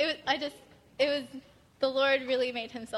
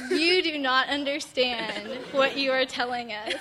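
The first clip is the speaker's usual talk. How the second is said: laughing emphasis; 5 dB louder, slower than usual. Retold or imitated. Retold reply, laughing.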